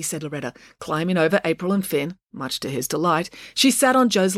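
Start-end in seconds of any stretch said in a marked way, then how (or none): none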